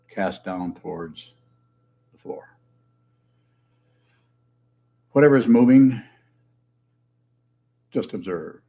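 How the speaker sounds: spare instructions with long pauses between; guided meditation. Real, not acted. Teacher guiding sitters to observe breath and body, measured meditation leading. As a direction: lead them into stillness, phrase by phrase.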